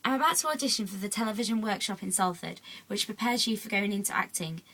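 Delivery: recited school presentation, line by line; scripted speech with lifted sentence openings; reading prepared speech aloud. Acted. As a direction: read your own written talk to the class. Reads own prepared speech aloud.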